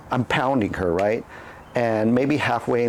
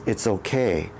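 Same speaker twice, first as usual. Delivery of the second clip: softer, soothing reassurance; soft calming voice; 3 semitones lower than usual. Retold or imitated. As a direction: hush him gently after the scare. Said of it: "the softest and calming voice ever".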